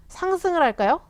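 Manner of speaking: 상승을 lifted high with a rising end; 상승을 할까요 asked high and rising; high rising question. Shown as a demonstration. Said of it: "아무도 모르죠".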